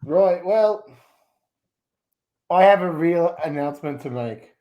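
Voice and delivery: a wobbly put-on Australian accent drifting toward Scottish; shifting mock Australian accent. Shrek chats with the show host in a shaky mock Australian accent. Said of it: "we're getting you in Scottish, sometimes it's Ukrainian".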